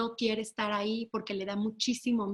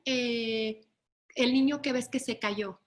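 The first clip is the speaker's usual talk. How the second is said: ordinary talk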